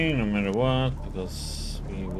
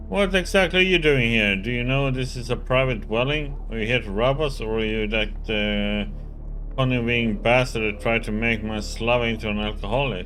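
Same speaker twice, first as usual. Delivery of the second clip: loud, accusing middle-aged woman; grim suspicious woman; 2 semitones higher, 6 dB louder than usual. Acted. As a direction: bark suspicious questions at a stranger.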